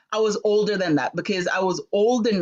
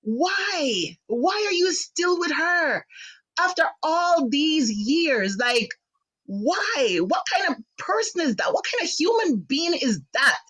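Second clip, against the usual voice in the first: raised, pained questions; upset; 5 semitones higher than usual. Real, not acted. Son asks why his father stays with her, hurt and raised. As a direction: demand it, hurt and angry. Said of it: "And I'm like".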